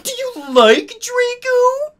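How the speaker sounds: very high, slow, teasing sing-song; teasing squeal. Acted. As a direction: drag it out high like a tease. Teasing friend asks about crush.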